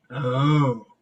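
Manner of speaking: patronizing, knowing reaction; condescending. Acted. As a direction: let the pity sink into one syllable. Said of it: "it gets more condescending every time she says it".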